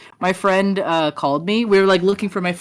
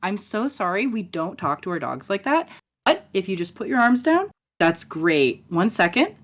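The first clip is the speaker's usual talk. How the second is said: customer service voice. Retold or imitated. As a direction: gently coach the dog owner. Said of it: "I go full customer ser".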